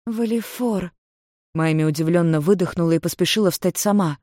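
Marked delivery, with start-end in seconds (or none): 0.1-0.9 surprised call. Acted. Miami recognizes him, startled.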